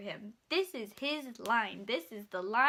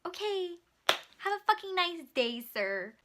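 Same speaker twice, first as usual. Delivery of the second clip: sarcastic; 6 semitones higher than usual. Retold or imitated. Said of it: "And I'm like".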